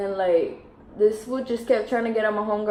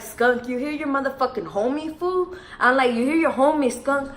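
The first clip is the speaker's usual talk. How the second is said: raised-pitch indignant retelling; mildly hammed-up outrage, higher voice; mock confrontation; 6 semitones higher than usual. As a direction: call out your friend, pitch climbing at the end. Retold confrontation with sleepy friend.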